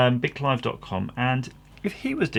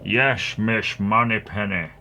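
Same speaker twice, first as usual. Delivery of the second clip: loud Scottish secret agent with slushy S; badly faked Scots, S turned to SH; bad Scottish accent; 5 dB louder, slower than usual. Secret agent answering Miss Moneypenny, hammy Scottish accent. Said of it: "I'm not good at accents".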